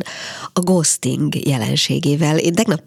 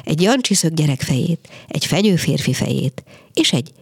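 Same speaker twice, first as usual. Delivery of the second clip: measured, lively literary reading; story narration. A narrator's reading. Radio host reads a short story to listeners, measured narration. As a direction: read the tale aloud for radio listeners.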